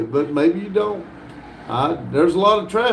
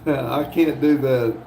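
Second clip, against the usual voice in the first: real laughter breaking through the words; can't get through it for laughing; slower than usual. Real, not acted. Streamer cracks up reading a chat typo, laughing. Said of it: "I can't, I got to laugh".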